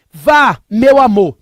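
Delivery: imitating wife. Husband mimics wife telling him to go play poker, slow mock voice. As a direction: stretch it out like his wife urging him. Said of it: "Tô imitando ela".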